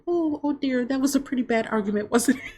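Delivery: high, prim busybody voice tutting sweetly; nosy old lady. Retold or imitated. A nosy diner lady comments on the couple's fight, high and prim. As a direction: play a nosy lady clucking over a fight. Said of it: "this lady's like".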